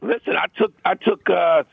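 raspy, voice worn out; hoarse voice. Real, not acted. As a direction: speak with almost no voice. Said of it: "It sounds like it".

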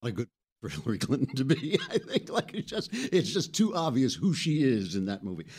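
laughing through the words; can't stop chuckling at the clip. Real, not acted. Host reacting to Hillary's Wizard of Oz comparison, laughing.

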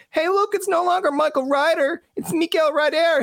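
hammed-up Newfoundland accent. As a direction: tease like a Newfoundlander at home. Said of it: "someone in Newfoundland going like".

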